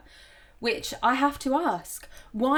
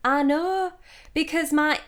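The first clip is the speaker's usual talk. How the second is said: mock Yorkshire accent. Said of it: "I'm gonna stop doing this accent".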